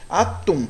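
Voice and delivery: "Atum" with the weight on the final "tum"; stress on last syllable. Shown as a demonstration. Teacher showing pupils which syllable stands out, stressed "tum" in "Atum". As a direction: lean on "tum" at the end of "Atum". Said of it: "Quem se destaca mais".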